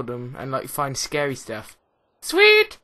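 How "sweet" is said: excited squeak that cracks; voice cracking. Real, not acted. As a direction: voice breaks on a high yelp. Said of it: "Voice crack".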